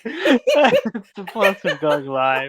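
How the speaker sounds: laughing while talking. Real, not acted. Laughing at sleeping guest.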